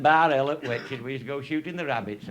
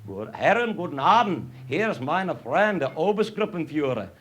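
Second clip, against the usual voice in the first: excited greeting; 4 semitones higher than usual. Retold or imitated. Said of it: "I stood up all excited".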